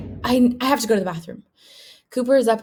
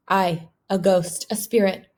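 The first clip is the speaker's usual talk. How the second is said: miserable. Acted. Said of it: "Roddy nods miserably".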